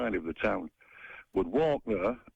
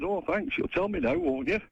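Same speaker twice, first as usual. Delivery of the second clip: high-pitched, exasperated mock gratitude; sarcastic thanks; 10 semitones higher than usual. Caller replaying his retort about the gun, sarcastic. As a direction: thank them as if they warned you far too late.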